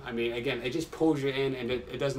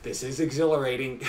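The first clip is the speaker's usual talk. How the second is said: catchphrase through a laugh; 4 dB louder than usual. Retold or imitated. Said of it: "his catchphrase".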